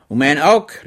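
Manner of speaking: mild card-player's outcry; calling out. A narrator's reading. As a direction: cry it out over the cards. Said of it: "rief er aus".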